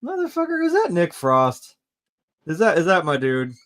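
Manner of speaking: high, loud burst of delighted recognition; reenacted starstruck surprise; excited disbelief. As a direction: blurt it out like you just spotted your hero, starting very high. Reenacts spotting a favourite actor.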